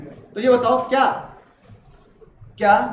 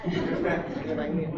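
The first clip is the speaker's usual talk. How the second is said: slower, much softer, pleading guilt trip; guilt-tripping plea; 8 semitones lower, 10 dB quieter, slower than usual. Retold or imitated. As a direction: lay the guilt on gently, drawn out. Teacher acts moral pressure between friends. (धीमी, दबी आवाज़ में भावुक दबाव)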